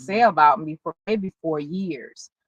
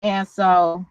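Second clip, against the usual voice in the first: normal talking voice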